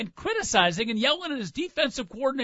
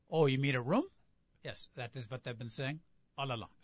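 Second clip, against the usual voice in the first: exasperated Clouseau; 6 semitones lower, 10 dB quieter than usual. Retold or imitated. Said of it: "Pink Panther movies".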